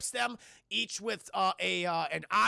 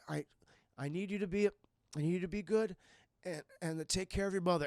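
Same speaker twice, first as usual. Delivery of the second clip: halting, subdued farewell; tender last words. Acted. Dying stepfather asks son to look after mother, tender. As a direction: play a dying father's gentle parting request.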